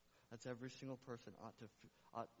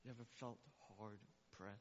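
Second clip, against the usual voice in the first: hushed question; 2 semitones lower, 8 dB quieter, faster than usual. Acted. Pastor speaking softly to the hurting, hushed question. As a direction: drop to a near hush, lean in. Sudden hush after shouting.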